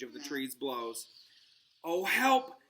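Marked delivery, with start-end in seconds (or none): 1.8-2.6 high, loud frantic calls for help; hammed-up frantic plea instead of a whisper; frantic cry. A narrator's reading. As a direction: panic and call out. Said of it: "Hermione whispered frantically".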